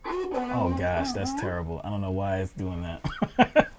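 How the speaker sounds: muffled, through a bad audio setup. Real, not acted. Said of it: "You sound, you sound like you're muffled".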